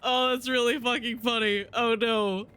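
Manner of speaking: laughing through the words, pitch high; can barely get it out for laughing. Real, not acted. Streamer cracking up at a viewer's joke, laughing.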